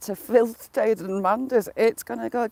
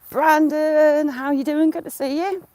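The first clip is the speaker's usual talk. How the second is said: cheery greeting; 7 semitones higher, 5 dB louder than usual. Real, not acted.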